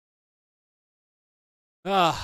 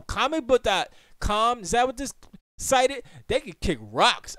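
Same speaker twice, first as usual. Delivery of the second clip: indignant; 10 semitones higher, 8 dB louder than usual. Real, not acted. Streamer angry the website blocks copying, indignant and louder. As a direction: call out the site in outrage.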